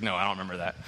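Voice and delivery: lightly voiced little girl, low and small; a hint of a young daughter shrugging it off; child's voice. Daughter answering her dad, lightly voiced child. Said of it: "She's like".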